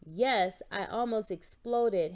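loud outburst, falling hard on exploded; a sudden indignant cry; cried out. Acted. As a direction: let the frustration burst out. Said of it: "Hank cried".

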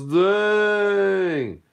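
drawn-out wowed reaction; impressed dang. Acted. Captain John reacting to the challenge, high impressed dang. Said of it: "And Captain John goes".

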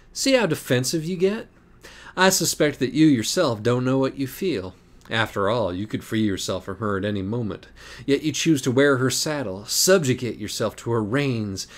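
high, sly, mocking cat; taunting cat voice. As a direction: purr the confession like a smug cat.

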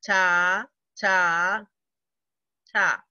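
"ta" chanted evenly on each beat; steady beat-by-beat "ta" reading; rhythm syllables. Shown as a demonstration. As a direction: tap out each "ta" like a quarter note. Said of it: "Let's do that one again".

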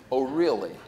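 loud, laughing mock scolding; mock indignant retort. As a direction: tease them with a loud put-on huff, bozo. Mock retort to reluctant students.

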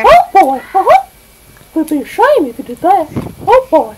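high goofy cartoon dog; hammy cartoon sidekick. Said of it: "You sound completely different".

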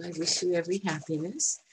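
softly, meaning every word; a heartfelt wish, said gently; sincere. Real, not acted. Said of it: "And I do".

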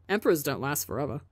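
quick, offhand shrug of a line; nonchalant. Acted. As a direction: toss it off casually. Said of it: "Tommy shrugs nonchalantly".

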